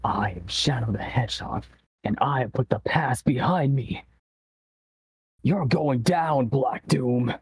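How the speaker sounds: whispered then rising edgy hedgehog voice; a hint of Shadow the Hedgehog. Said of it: "let me just get into my Shadow voice".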